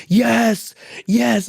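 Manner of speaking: high, drawn-out mock yeses; imitated gleeful cheering. Platoon hearing how he bombed the board, imitated high glee. Platoon delighted by his story.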